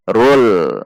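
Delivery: "rul" ending on a held L; "rul" with an L, no w glide; correct L articulation. Shown as a demonstration. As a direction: show "rul" with the tongue placed for L. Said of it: "seperti lam saja".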